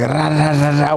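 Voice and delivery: rapid rattled-off rahs; imitated fight noise. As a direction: mimic a flurry of punches. Imitating himself going at it.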